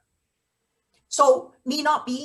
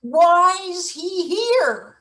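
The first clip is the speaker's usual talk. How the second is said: exasperated demand; 7 semitones higher, 5 dB louder, slower than usual. Acted.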